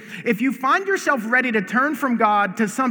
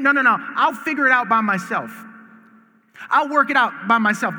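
stubborn inner voice. Retold or imitated. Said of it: "you think".

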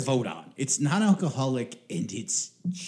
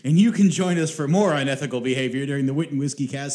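put-on old radio serial announcer; 2 semitones higher, 4 dB louder than usual. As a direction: close the show like a vintage radio host. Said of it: "my radio announcer voice".

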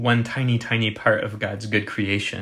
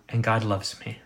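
intimate, personal. Shown as a demonstration. Preacher contrasting the personal way of saying it, intimately. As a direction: say it as a personal confession. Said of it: "very intimately and personally".

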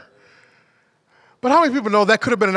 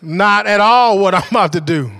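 defiant refusal; 2 semitones higher, 3 dB louder than usual. Retold or imitated.

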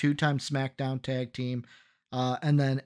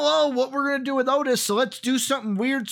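mocking high voice; 9 semitones higher, faster than usual. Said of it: "they didn't know".

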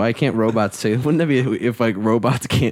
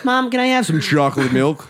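higher, mock sitcom kid asking Mom; a lightly voiced innocent child; 6 semitones higher than usual. Playing Peter Brady asking his mom for milk, higher kid voice. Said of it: "He's like".

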